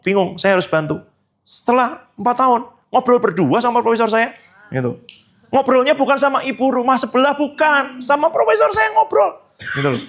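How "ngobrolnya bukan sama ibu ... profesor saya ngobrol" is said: emphatic preaching. Real, not acted. Preacher stressing a point.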